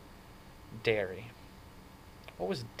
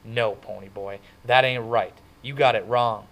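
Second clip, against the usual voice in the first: dumbfounded; 7 dB louder than usual. Acted.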